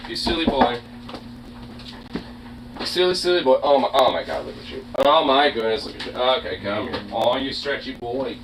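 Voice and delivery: soft, fond cooing; pet talk. Real, not acted. Fussing over the stretching pet, soft cooing. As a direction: coo quietly over a silly pet.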